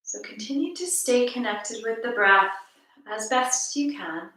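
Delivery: calm, measured meditation voice with long pauses; guided meditation. Acted. Teacher guiding listeners to notice each breath, calm guided meditation. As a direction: lead listeners gently through the breath, unhurried.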